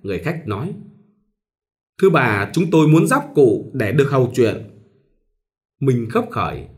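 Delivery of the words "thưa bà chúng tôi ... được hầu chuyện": lightly voiced courteous gentleman; polite stranger. Suited stranger politely asking at the door, mild courtesy. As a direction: ask with a bow in the voice. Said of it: "Vẫn lễ phép".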